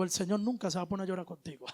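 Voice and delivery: fast hushed whisper. Real, not acted. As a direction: lean in and whisper it like a secret. Confiding aside to congregation. (susurro rápido y confidencial)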